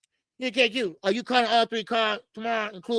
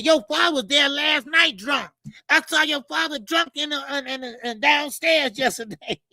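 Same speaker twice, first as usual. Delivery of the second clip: mock angry Wally rant; 5 semitones higher than usual. Host imitates Wally yelling at the fighter about his drunk father, mock angry. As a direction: throw it out like a riled old man. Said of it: "And he said".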